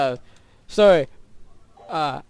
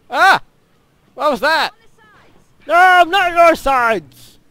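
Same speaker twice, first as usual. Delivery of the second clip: higher, louder panicked cry; startled yelp; 12 semitones higher, 11 dB louder than usual. Real, not acted. Gamer startled by a sudden blast, shrieking. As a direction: shriek in surprise.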